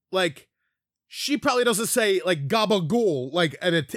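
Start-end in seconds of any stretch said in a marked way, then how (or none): 2.5-3.3 Italian American gabagool. Shown as a demonstration. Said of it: "like an Italian American would".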